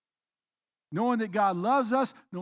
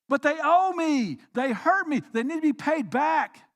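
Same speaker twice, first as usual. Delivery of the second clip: resentful complaint; 4 semitones higher, 4 dB louder than usual. Pretend. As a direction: demand payback, bitter. Voicing a resentful listener.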